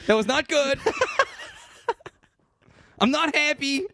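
talking with a swollen lip; words round a sore hit lip; fat lip. Real, not acted. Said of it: "I hit my lip".

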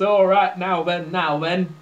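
lightly put-on northern English accent; a hint of mock Yorkshire in the voice. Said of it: "shall we switch accents again".

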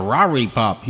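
Rari pop with the L sounds turned into R; mock R for L. Mocking someone who turns an L into an R. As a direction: say Rari pop swapping every L for an R. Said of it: "why in the hell do you take an L and make it an R".

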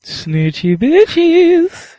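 high breathy whisper, very slow. Pretend. Roll call answer.

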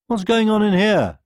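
high loud alarmed; bursting in worried; alarmed sheep and goat. A narrator's reading. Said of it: "they asked".

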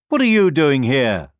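wild ducks confronting a stranger; demanding ducks. A narrator's reading. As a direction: bark the question at him. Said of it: "they demanded".

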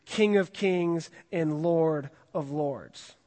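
stretched out, each word weighted; slow solemn reading. Acted. Pastor reading scripture to the youth group, slow and solemn. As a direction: proclaim it slowly, with reverence.

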